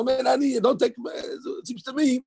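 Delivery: hedging rabbi's intonation; humble tentative tune. Shown as a demonstration. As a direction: stretch out "it seems to me" high and unsure, a modest hedge. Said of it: "You have to know the intonation".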